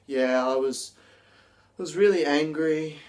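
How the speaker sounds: deflated, unconvincing claim of anger; depressed and slumped. Shown as a demonstration. Teacher demos an unconvincing angry claim, deflated. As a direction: say you're angry with no energy at all. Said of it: "your body language is just slumped".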